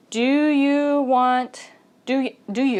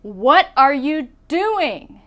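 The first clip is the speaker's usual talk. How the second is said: louder, slow What are you doing; real confronting question; 3 semitones higher, 4 dB louder, slower than usual. Shown as a demonstration. Catching someone stealing your bike, confronting. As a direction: challenge the bike thief. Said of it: "You say".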